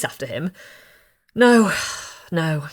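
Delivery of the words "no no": a louder sudden No, then dropping back; blurting her thought out on the street; said aloud. A narrator's reading. Bride talking to herself on the street, mildly loud. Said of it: "she said aloud".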